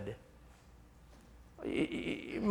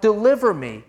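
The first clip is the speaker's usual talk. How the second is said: loud plea, voice raised on Deliver; crying out; 4 dB louder than usual. Acted. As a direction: cry out Deliver to God, pleading and loud. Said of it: "David cries out".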